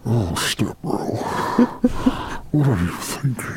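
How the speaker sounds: a mock dark lord drawing out each word like a yawn; Sith Lord voice. Shown as a demonstration. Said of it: "I was doing this thing where I was saying".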